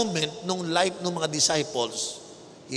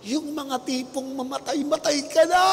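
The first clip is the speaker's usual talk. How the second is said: dramatic shout; 8 semitones higher than usual. Acted. Dramatic build about near death.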